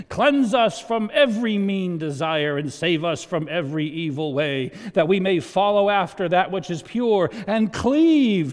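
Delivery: loud, solemn King James prayer voice; grand archaic prayer read aloud; old formal prayer reading. Acted. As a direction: intone it like an old-fashioned liturgy. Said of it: "Who talks like that?".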